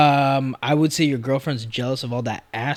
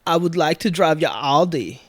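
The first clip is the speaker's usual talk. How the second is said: put-on German accent; 2 semitones higher than usual. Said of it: "That was a good German accent".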